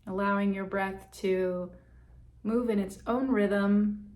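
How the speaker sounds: calm meditation guide with long, settling pauses; guided meditation. Real, not acted. Guide leading listeners to check in on breath and body, guided meditation. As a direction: ease listeners inward, leaving space between phrases.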